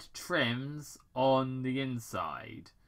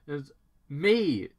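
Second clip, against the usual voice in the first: Robotnik; 4 semitones higher, 7 dB louder than usual. Acted. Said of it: "Doctor Robotnik interrupted".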